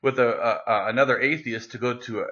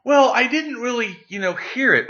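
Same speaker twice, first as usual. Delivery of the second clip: imitating the drunk guy, much higher and a bit louder; mock drunk believer, pitched way up; drunk guy backing down; 10 semitones higher, 3 dB louder than usual. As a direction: play the drunk stranger caving in. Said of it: "so he goes".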